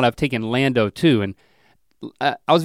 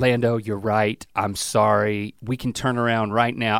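apologetic; 3 semitones lower, 4 dB quieter than usual. Retold or imitated. Dad retells apologising to crying son.

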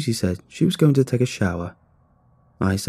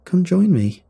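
higher-pitched sultry invitation; playfully seductive, pitched up; 9 semitones higher, 4 dB louder, slower than usual. A narrator's reading. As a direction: coax them in with a lilting, sultry voice. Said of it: "In a sultry voice".

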